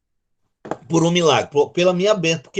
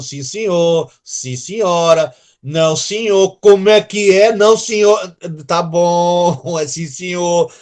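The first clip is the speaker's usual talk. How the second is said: put-on obedient child; 5 dB louder than usual. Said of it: "Era o tal do".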